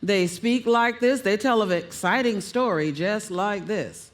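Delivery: monotone, stuck in mid-range; no modulation. Shown as a demonstration. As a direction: demonstrate a speaker who never varies pitch. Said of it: "There's no modulation".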